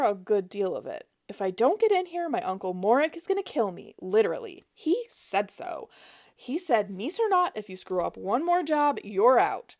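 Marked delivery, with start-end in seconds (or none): 1.3-9.8 high, louder fake panic; high-pitched panic. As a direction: put on frantic fear for the phone agent. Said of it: "injected all the high-pitched panic".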